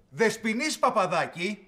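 slow, drawn-out summons by name; calling out sternly. Acted. Boss summoning Παπαδάκη over the manuscript, stern call. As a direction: call the culprit out, stretching each word. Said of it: "τι φωνάζετε".

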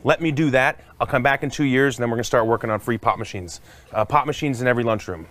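loud campaign speech voice; a loud stump speech; honest politician. Pretend. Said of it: "I would say".

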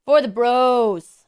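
slow, drawn-out bro praise; bro talk. Pretend. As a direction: stretch it out like a bro greeting a bird. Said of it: "he likes bro talk better".

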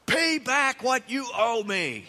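slow, hard, pressing demand. Acted. Servant choking his fellow servant, a slow pressing demand. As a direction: lean on him like a debt collector. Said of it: "he demanded".

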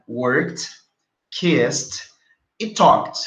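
"worked", "kissed", "talked" each one syllable ending in T. Shown as a demonstration. Teacher recaps the three verbs, "worked", "kissed", "talked" with T endings. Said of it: "é como se no lugar do E D tivesse um T".

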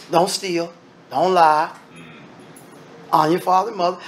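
ordinary talk, nothing marked

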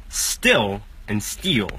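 "still and steal" very slow, short i in "still", long ee in "steal"; slow minimal pair. Shown as a demonstration. Teacher contrasting "still and steal" slowly for students. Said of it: "conseguem diferenciar essas três palavras".

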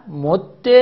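مد with a doubled dal ending in short e; assimilated, kasra ending. Shown as a demonstration. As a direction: hold the dal of مد, then release -de. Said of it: "چهار وجه در اینجا". (مد با دال مشدد و کسره)

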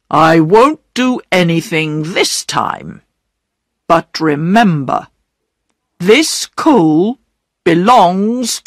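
measured, firm warning from an official; stern station master. Acted. Station master letting Peter off this time, stern warning. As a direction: lay down the rule firmly, lightly in character.

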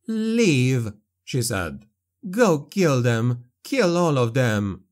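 grieving daughter sends Felix off to kill the ghouls, hatefully; young woman, hateful. Acted. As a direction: voice Elsa spitting out the order. Elsa, full of hatred.

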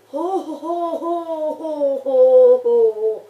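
loud ho ho laugh; booming relieved laughter; triumphant laugh. Real, not acted. Survived the night, laughing.

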